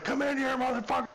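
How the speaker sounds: high mock taunt, half laughing; taunting detainee. Detainee taunting the sergeant through the door, high mock taunt. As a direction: ham up the guy daring him in.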